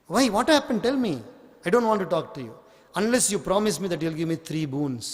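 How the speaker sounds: a lightly voiced fond husband begging; doting king pleading. King coaxing his upset wife, eager pleading.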